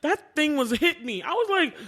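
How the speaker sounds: normal talking voice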